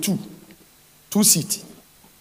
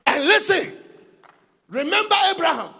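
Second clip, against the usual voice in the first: higher, pleading call; higher voiced plea to remember Abraham; lifted plea; 9 semitones higher than usual. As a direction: reach up into the plea. Preacher lifts voice on Moses' plea.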